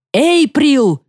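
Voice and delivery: высокий громкий вопль матери; кричит дочери через весь дом; крик. A narrator's reading. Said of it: "орала миссис Чарльз". (мать громко и высоко орёт имя дочери)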